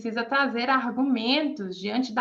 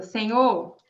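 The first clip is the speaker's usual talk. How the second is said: slow, heartfelt plea to the Lord, swelling louder on a tua palavra; earnest prayer; 4 dB louder, slower than usual. Shown as a demonstration. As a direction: pray it earnestly, leaning into the word.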